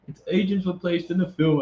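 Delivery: reading in a put-on British accent; lightly done British accent, newsreader style. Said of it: "I'm done with the British accent".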